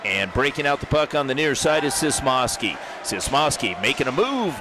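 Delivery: brisk hockey commentator calling the action; play-by-play. Acted. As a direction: call the game live, rink announcer energy.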